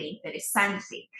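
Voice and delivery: "interesante" stressed on "san", intere-SAN-te; Spanish "interesante" stressed near the end. Shown as a demonstration. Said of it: "El acento le ponemos en sante".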